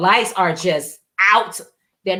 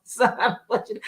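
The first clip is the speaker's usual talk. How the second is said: strict worried mommy voice; 3 semitones higher, 6 dB quieter than usual. Retold or imitated. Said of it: "strict, worry mommy voice".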